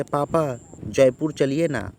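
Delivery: put-on a child coaxing papa, stretching the ना slowly; lightly acted begging; pleading request. Shown as a demonstration. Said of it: "अनुरोध कर रहा है".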